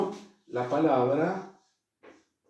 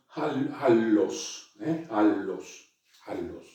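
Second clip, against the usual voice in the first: al, los said a little faster; faster split double l; 3 semitones lower, slower than usual. Shown as a demonstration. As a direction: run al, los together a little quicker. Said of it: "un poquito más rápido". (al, los, un poquito más rápido)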